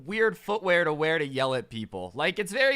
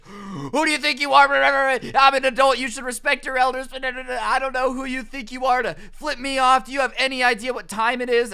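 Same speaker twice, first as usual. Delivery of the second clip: put-on shouted high and loud, an indignant older man; mock angry boomer yell; 7 semitones higher, 7 dB louder than usual. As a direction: yell it like an offended adult demanding respect.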